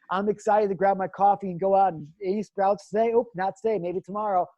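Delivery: cheerful anticipation, easing off; acted eagerness. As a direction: play a hopeful daily check, lightly let down at the end. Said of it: "It's the excitement of knowing".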